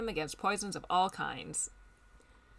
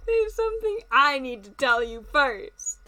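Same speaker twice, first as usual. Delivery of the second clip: lightly voiced Colonel; 5 semitones higher, 3 dB louder than usual. Voicing Colonel Sanders.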